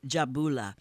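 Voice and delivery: Jabula with a clean "boo" vowel; pure vowel. Shown as a demonstration. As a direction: demonstrate Jabula with a pure oo, no glide. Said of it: "pure vowel".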